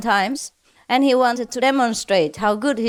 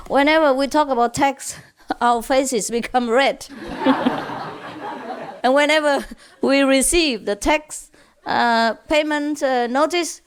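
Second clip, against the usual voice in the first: laughing through; 4 semitones higher than usual. Real, not acted. Joke punchline told laughing.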